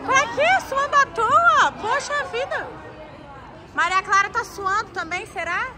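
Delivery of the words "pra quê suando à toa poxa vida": playful teasing. Real, not acted. Teasing friend for sweating.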